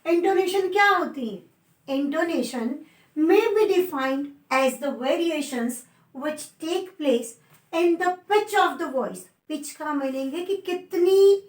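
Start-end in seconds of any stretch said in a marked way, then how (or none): 1.9-9.3 very slow, word by word dictation. Shown as a demonstration. Teacher dictating a definition to students, very slow. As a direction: spell out the definition slowly so students can write.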